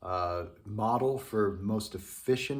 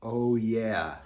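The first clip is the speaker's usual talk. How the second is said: a yawning, louder "oh yeah"; drawn-out yawn shape on the words; 5 dB louder than usual. Shown as a demonstration. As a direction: say it as if opening into a yawn. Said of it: "with the yawn is to think".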